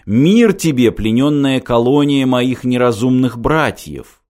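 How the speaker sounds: soft singsong alien. Acted. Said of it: "Голос был мягким, напевным, влажным".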